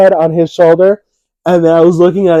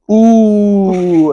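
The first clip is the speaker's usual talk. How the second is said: higher, louder sympathetic crowd ooh; crowd wince; 5 semitones higher, 4 dB louder than usual. Retold or imitated. Crowd reacting to a kid hit in the face, a loud pained ooh. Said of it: "the crowd goes".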